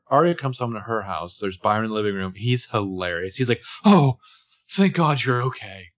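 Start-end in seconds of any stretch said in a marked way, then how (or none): 3.9-5.9 a loud, gushing "Oh", then a slow, relieved "thank God"; overdone parental relief. Retold or imitated. Father overreacts as his daughter walks in, gushing relief. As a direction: ham up the panicked dad's relief. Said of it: "Like, take it down a notch".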